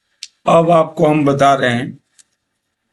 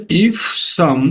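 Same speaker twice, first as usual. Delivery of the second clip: each word drawn out very slowly; slow poem reading. Shown as a demonstration. Teacher reading a poem line to students, very slow. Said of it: "ध्यान दीजिएगा".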